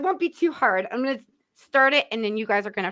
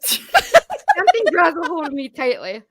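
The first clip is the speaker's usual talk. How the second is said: laughing; 5 semitones higher, 6 dB louder, slower than usual. Real, not acted. Host finishes lyric, laughing.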